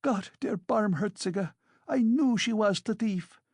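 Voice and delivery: high, indignant exclamation; a landlady crying out in triumph; outraged cry. A narrator's reading. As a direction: throw up your hands and cry it out. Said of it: "cried Amalia Ivanovna".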